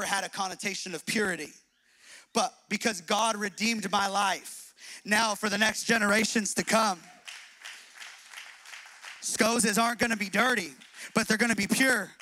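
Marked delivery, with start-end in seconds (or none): 2.3-12.1 emphatic preacher's proclamation, steadily pushed; forceful preaching. Real, not acted. Preacher declaring his children free of generational sin, forceful preaching. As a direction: declare it with firm, driving conviction.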